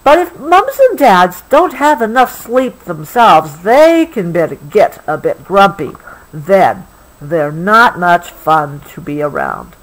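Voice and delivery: gentle, unhurried storybook read; reading to a child. Acted. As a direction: soothe a child toward sleep with the story. Reading the book.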